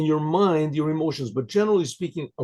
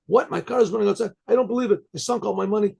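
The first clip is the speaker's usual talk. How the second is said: higher-pitched, acted-out dismay; shocked disbelief; 6 semitones higher, faster than usual. Car owner told his new car is burning, shocked disbelief. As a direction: react as if just hit with bad news.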